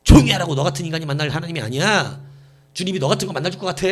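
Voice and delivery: loud burst, then a scornful scolding; mock-angry crowd member; acted rebuke. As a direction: scold a beggar who has no right to speak. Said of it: "많은 사람들이 꾸짖어서".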